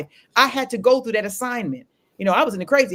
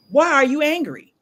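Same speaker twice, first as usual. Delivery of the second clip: higher, louder acted question; pointed question; 7 semitones higher, 5 dB louder than usual. Counselor finally confronting an irritated client, pointed. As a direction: retell a counselor pressing for the reason.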